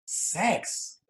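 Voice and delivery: slow, high Russian-accented mom impression; imitating disgusted Russian mother. Son mimicking his mom appalled by his stand-up act, disgusted Russian accent. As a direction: scold slowly in a put-on Russian mother's accent. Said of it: "She goes".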